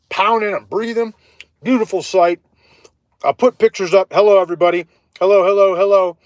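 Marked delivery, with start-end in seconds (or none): 4.1-6.2 loud hello. Real, not acted. Greeting viewers in a loud voice.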